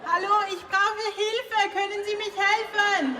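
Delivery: calling for help in German. Real, not acted. Singer calling through the closet wall to German tourists, pleading. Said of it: "she actually has the skills".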